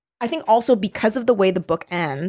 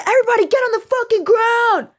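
much higher, hammed-up yell; mock threat; 4 dB louder than usual. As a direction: Hannah orders everyone down, hammed-up yell. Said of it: "She's like".

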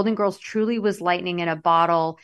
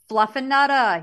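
"Fluffernutter" as "fluffanutta", Massachusetts-style; raised, r-less Massachusetts exclamation; Massachusetts accent; 5 semitones higher than usual. Shown as a demonstration. Host voicing a friend back home, Massachusetts accent. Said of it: "in my mass".

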